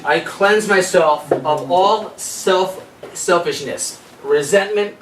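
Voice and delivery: slow, measured reading of an affirmation. Acted. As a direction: read each word as a gentle vow. Reading a cleansing affirmation aloud.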